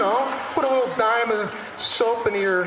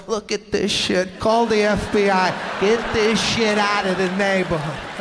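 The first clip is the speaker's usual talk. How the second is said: loud disgusted neighbor yelling; outraged neighbor; 6 dB louder than usual. Retold or imitated. Neighbor spotting a grown man in diapers, loud outrage. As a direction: bellow it like an appalled neighbor.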